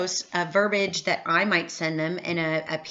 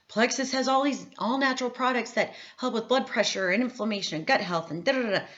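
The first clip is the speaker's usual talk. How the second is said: mock sales pitch; 4 semitones higher than usual. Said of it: "I'm not going out and saying".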